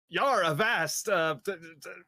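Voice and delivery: hammed-up pirate drawl; slow mock pirate talk. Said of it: "your best pirate voice".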